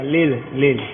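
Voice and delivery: लेल said with an l sound where र should be; लेल as a lisping child says रेल; childlike lisp demo. Shown as a demonstration. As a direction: imitate a child saying लेल instead of रेल. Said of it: "रेल को लेल बोलता".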